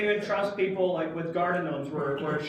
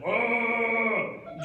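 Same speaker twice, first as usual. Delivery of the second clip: yelling; 6 semitones higher, 4 dB louder than usual. Retold or imitated. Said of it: "Don't scream, dude".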